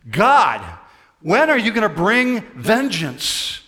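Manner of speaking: loud, high preacher's cry to God; screaming plea. Acted. Preacher voicing heaven's martyrs demanding justice from God, loud screaming plea. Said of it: "they're screaming for all they're worth".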